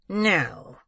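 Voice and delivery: high, drawn-out angry refusal; furious. A narrator's reading. Old man rejoining the girl, furious. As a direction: bite into a long falling no. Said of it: "rejoined the Jew furiously".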